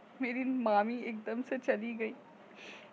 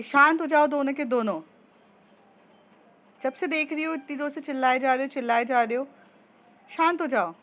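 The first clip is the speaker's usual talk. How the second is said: louder, firm, hurried; calm down shout; 3 semitones higher, 5 dB louder, faster than usual. Acted. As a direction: peacemaker friend yelling stop. Mediator shouts to stop fight.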